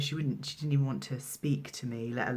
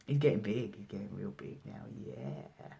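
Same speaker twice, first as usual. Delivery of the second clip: pet talk; 3 semitones lower than usual. Real, not acted. Talking fondly about the cat being stroked.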